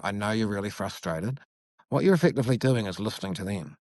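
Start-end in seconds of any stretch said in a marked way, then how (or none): 0.0-1.4 soft validating. Shown as a demonstration.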